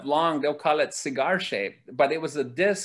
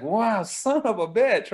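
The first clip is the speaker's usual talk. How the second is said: amazed swear; 5 semitones higher, slower than usual. Retold or imitated. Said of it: "can I say what I said when I was there".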